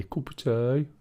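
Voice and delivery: "cup of tea" in a light Black Country accent, rising at the end; local Black Country accent. Shown as a demonstration. Streamer showing viewers the local way, light Black Country accent. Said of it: "Or as they say around here".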